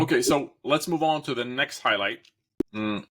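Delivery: talking around an ice cube; mouth full. Real, not acted. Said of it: "an ice cube in my mouth here".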